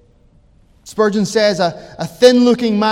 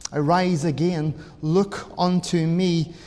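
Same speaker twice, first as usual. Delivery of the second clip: hushed appeal; 4 semitones lower, 6 dB quieter than usual. Retold or imitated. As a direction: lower the voice into a solemn appeal. Voicing preacher speaking as Christ.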